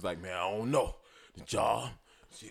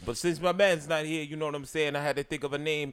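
higher-pitched imitation of Mister Fly's patter; impression of Mister Fly; 4 semitones higher than usual. Co-host imitating the absent Mister Fly's intro, higher. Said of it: "He sound just like that nigga".

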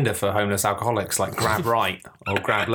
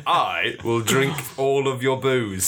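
lightly mock robotic swap voice; much slower than usual. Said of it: "You're like".

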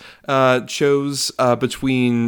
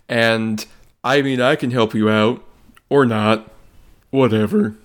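Ed Harris. Acted. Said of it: "That was my impression of Academy Award nominee Ed Harris".

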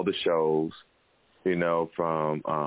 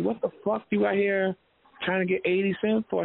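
mock scolding; 13 semitones higher than usual. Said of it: "So I'm like".

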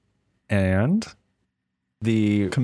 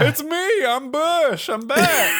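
much higher, cheery mock president bouncing back; chipper comeback; slower than usual. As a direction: announce your triumphant return. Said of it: "and is like".

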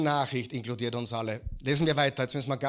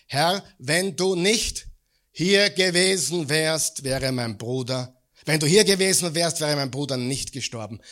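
a touch of grief, slowed down; mild lament; 3 dB louder than usual. Acted. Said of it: "warf sie sich ihm zu Füßen und sagte".

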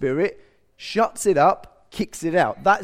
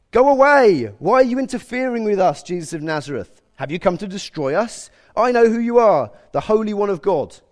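raised, loud cry of a possessed man; demon shouting; 5 semitones higher, 6 dB louder than usual. A narrator's reading. A possessed man challenging Jesus in the synagogue, shouting. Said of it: "began shouting at Jesus".

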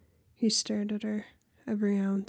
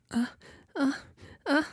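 small gasps; 5 semitones higher, faster than usual. A narrator's reading. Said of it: "minute gasps".

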